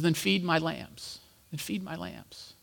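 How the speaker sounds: slow, soft, deliberate; slow gentle command. Retold or imitated. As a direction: lay each word down slowly. Jesus' command retold slowly.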